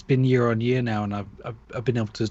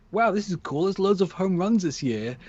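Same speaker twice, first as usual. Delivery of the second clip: mock delight; 6 semitones higher than usual. Voices the happy reaction people should have.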